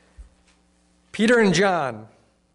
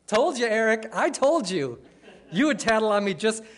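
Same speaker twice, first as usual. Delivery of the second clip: gloating; 5 semitones higher than usual. Retold or imitated. Gloating over brother.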